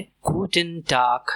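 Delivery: गुडन टाग ending in a hard k-like g; German Guten Tag. Shown as a demonstration. Teacher presenting गुडन टाग. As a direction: finish टाग crisp. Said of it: "इसकी pronunciation है गुडन टाग".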